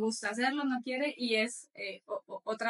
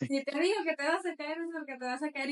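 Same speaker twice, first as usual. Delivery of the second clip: put-on scolding old-school mom; 4 semitones higher than usual. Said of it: "las mamás de antes".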